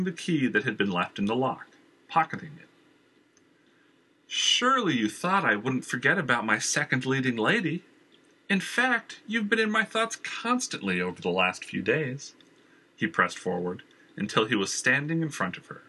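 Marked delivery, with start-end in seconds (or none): 4.3-12.3 higher, smooth villain's voice; a charming, pushy villain at the door; Jenner's voice. Acted. Jenner oozes false charm at Valerie's door.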